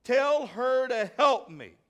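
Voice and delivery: irritated complaint. Acted. Martha scolding Jesus, irritated and loud. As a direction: snap it out, fed up. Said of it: "She said".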